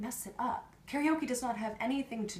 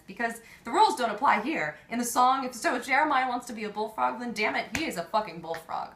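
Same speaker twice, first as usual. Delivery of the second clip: loud, raised, emphatic rant; impassioned insistence; 4 semitones higher, 6 dB louder than usual. Acted. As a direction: argue it with rising fervour. Impassioned climax of karaoke argument.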